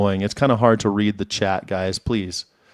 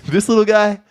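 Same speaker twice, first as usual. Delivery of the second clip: quoting cop; faster than usual. Retold or imitated. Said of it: "where he's like".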